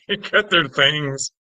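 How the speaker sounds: slow disbelieving repeat through laughter; giggling slowly while repeating; laughing. Real, not acted. Laughing echo of shocking remark.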